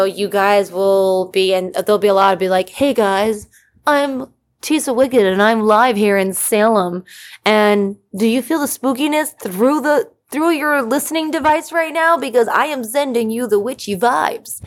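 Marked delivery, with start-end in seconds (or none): 2.7-14.6 lightly spooky witch-host voice, rising higher toward the end; a touch of creepy, teasing a live show from Salem; creepy witchy host. Pretend. Host teasing listeners with a lightly creepy witchy voice. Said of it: "maybe I'll do a podcast in that voice, like, just kinda creepy".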